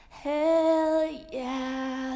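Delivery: sudden loud hell yeah; loud outburst. Acted. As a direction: blurt it out loud. Sudden outburst in whispered piece.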